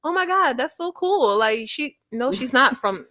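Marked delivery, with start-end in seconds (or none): 0.0-1.4 higher-pitched impressed quote; retold amazement. Imitating a boy charmed by the accent, impressed. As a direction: lightly mimic an awed listener. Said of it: "He's like".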